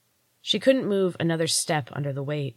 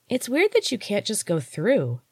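higher, lightly voiced child, puzzled; curious child voice; 5 semitones higher than usual. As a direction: wonder aloud like a nosy kid. Fairy child wonders aloud.

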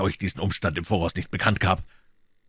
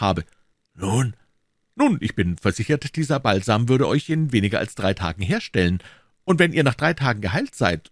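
put-on eager young voice, a little higher; a hint of a keen youth; young D'Artagnan; 4 semitones higher than usual. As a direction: offer the balm earnestly. D'Artagnan voiced in read story.

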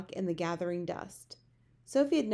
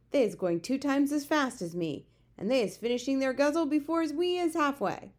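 lightly voiced storybook giant, louder and higher; exasperated giant, lightly characterised; giant's dismissive protest; 6 semitones higher, 5 dB louder than usual. A narrator's reading. Giant rejects the idea to Sophie, dismissive protest.

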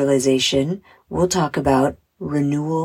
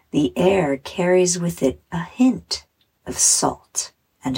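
measured, soothing meditation narration; unhurried guided relaxation voice; guided visualization. Acted. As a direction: guide the listener gently through the imagery, with pauses.

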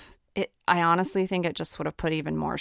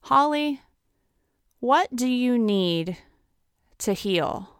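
gentle concern; 4 semitones higher than usual. Retold or imitated. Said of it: "kind of in a serious way, but with love and concern".

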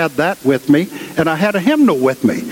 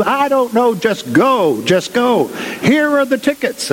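higher, rushed boss voice; hurried rector; 8 semitones higher than usual. Retold or imitated. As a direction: dump the job on him, pitched up and quick. Rector brushing him off.

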